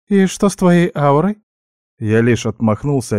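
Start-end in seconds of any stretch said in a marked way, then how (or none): 0.1-1.4 high little-animal voice, questioning; suspicious guinea pig. A narrator's reading. Guinea pig questioning the elf about his aura, high and suspicious. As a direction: probe in a high squeak.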